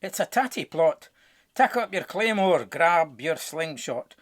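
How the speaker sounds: loud call to arms; rallying call. A narrator's reading. Neeps call the others to battle, shouting. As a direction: rouse the troops, loud and rousing. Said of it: "The neeps cawed out".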